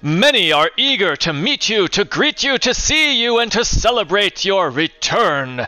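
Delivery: high, eager welcoming mayor; hammy small-town mayor gushing; eager town official. Acted. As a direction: greet the heroes with effusive pomp. GM voicing mayor.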